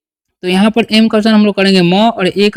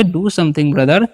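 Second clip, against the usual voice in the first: slow dictation; 3 semitones lower, much slower than usual. Shown as a demonstration. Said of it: "तो क्या बोलेंगे?".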